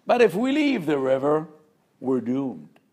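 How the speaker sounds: high and loud, dreading leaving the river; loud dread in the fish's voice; fearful fish's cry. Acted. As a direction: say "we're doomed" as a frightened cry. Fish's fearful conclusion, contrasted later.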